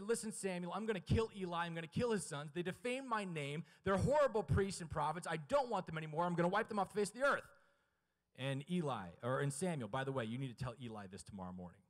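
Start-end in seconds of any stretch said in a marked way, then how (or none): 0.0-7.5 mildly wrathful, raised preacher's voice; a touch of divine anger; God pronouncing judgment. Acted. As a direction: condemn them forcefully as God.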